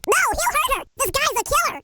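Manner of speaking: high, urgent warning; alarmed protest. Acted. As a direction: cry out in alarm for someone in danger. Fears for the hostage.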